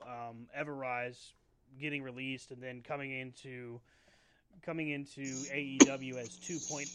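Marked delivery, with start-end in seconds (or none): 4.6-6.9 talking through the hiccups; a hiccup breaking the sentence. Real, not acted. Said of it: "excuse me, I have the hiccups".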